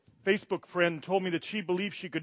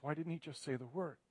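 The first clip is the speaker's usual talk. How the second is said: grieving plea; 2 semitones higher, 5 dB quieter than usual. Retold or imitated. Pastor retells a grieving friend's question, softly pleading. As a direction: relay her broken question with a touch of tears. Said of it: "she's crying".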